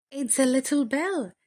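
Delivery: high, pleased discovery; a high delighted exclamation. Acted. Farmer's wife opens the parcel.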